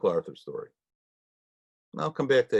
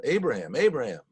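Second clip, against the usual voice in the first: God calling; 4 semitones higher than usual. Retold or imitated.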